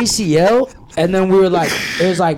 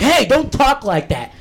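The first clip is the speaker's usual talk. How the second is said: higher, slow mock scold from a teacher; retold school teacher warning, drawn out and higher; 7 semitones higher than usual. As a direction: play the prim teacher telling him off. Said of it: "They're like".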